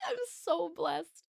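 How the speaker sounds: real tears, words drawn out slowly; barely holding it together, slow; tearful and slow. Real, not acted. Streamer thanking her community, near tears and slow.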